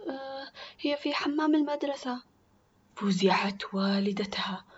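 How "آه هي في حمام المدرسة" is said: put-on higher, hesitant scared girl; frightened answer. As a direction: confess timidly, afraid of punishment. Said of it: "خافت سما وأجابت".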